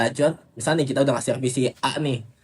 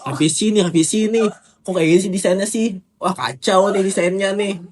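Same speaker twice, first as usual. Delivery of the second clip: higher, louder strained nagging while lifting; carrying heavy load; 6 semitones higher, 3 dB louder than usual. Pretend. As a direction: complain about the design under a heavy load. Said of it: "Ngomong sambil ngangkat jalan gitu".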